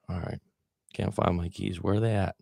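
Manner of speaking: soft and settled, no panic; calm, quiet acceptance. Shown as a demonstration. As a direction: say it gently, accepting the loss. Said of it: "take a moment and accept".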